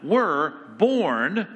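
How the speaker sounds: "were" and "born" each given a pitch swell; emphatic scripture reading of "were born"; stress on "were born". Shown as a demonstration. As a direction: weigh out "were born" word by word. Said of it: "note that".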